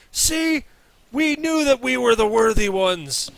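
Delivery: high, loud smug boast; boastful lizard folk. Acted. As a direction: gloat like a proud tribesman. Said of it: "you hear".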